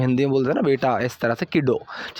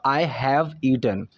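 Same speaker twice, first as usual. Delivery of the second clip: slow model sentence; 3 semitones lower, much slower than usual. Shown as a demonstration. Teacher models slow English line.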